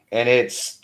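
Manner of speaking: ordinary talk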